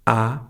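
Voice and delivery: ah gliding upward; rising second tone. Shown as a demonstration. Teacher recapping the tones, ah rising. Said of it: "raise your voice a little bit".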